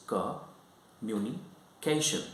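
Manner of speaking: "communication" drawn out slowly in separate pieces; syllable by syllable. Shown as a demonstration. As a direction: break "communication" into slow syllable chunks. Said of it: "it has got three syllables".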